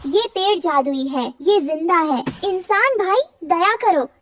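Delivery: earnest, mildly distressed appeal; urgent pleading. Acted. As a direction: beg them to stop and spare your home. Bird begs man to spare tree.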